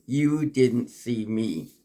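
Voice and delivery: slow, set-apart title reading; poem title. Shown as a demonstration. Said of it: "let me read the poem for you".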